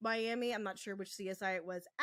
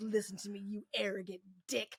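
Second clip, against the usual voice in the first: imitated, exaggerated super-dominant dad voice. Retelling a scene where a character confronts someone, imitating a super daddy tone. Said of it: "a super daddy on him".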